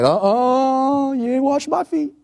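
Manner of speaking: high, loud, cheeky Peter refusing; a brash fisherman digging in his heels; stubborn Peter. Acted. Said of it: "And Peter's like".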